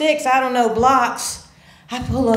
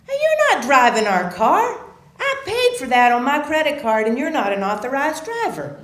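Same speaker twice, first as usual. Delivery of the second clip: firm angry; 5 semitones higher than usual. Retold or imitated. Arguing with father.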